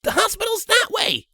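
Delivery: high shrill colt yell. Acted. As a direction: shout out the directions. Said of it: "Snips yelled".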